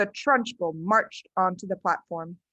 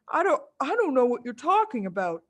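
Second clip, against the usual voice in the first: put-on higher, stumbling boy's voice; baffled boy; 4 semitones higher, faster than usual. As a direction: protest in confusion. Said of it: "more puzzled than ever".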